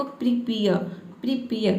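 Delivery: प्रिपेयर with the last vowel stretched long; long final a. Shown as a demonstration. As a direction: draw out the ending of प्रिपेयर. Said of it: "last में अ का sound थोड़ा लंबा देना है".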